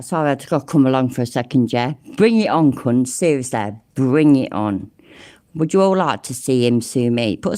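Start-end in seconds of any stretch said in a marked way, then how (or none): 2.1-4.9 defiant. Real, not acted. Daring him to sue.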